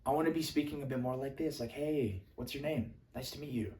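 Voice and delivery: soft, hushed introduction; library voice. Shown as a demonstration. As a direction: keep it down as if in a library. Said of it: "If I'm in a library".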